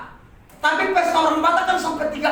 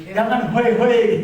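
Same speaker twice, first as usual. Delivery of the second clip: gentle wife's plea; 5 semitones lower, slower than usual. Retold or imitated. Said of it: "Kayak Mama Ruth ya".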